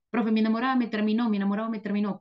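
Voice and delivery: a quick, lightly voiced heartbroken student; complaining student. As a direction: rattle it off like a student whining to the teacher. (alumno quejoso, rápido y apenas actuado)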